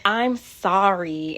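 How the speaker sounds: slow, choked-up apology; real emotion catching in the throat; emotional. Real, not acted. Vlogger pausing as emotion rises, slow and choked. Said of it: "I'm getting emotional".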